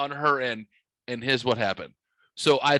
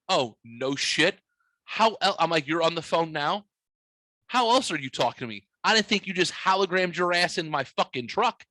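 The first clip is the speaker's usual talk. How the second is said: sarcastic smartass; 5 semitones higher than usual. Retold or imitated. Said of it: "I'm just being a smartass".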